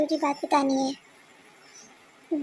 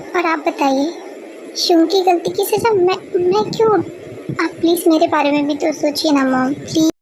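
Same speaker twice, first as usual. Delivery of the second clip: upset protest; 5 dB louder than usual. Acted. Son protesting to his mother.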